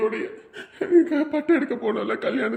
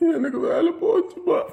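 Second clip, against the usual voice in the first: sobbing; 3 semitones higher than usual. Acted. Son repeats job loss sobbing.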